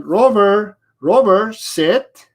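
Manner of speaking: imitating the owner. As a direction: mimic an owner who calls twice. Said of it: "you're saying".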